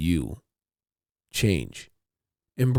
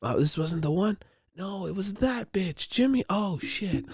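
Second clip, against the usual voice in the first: soft, high, half-whispered sorry; sheepish apology; 10 semitones higher, 6 dB quieter than usual. Retold or imitated. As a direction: back down meekly. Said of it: "I'm like".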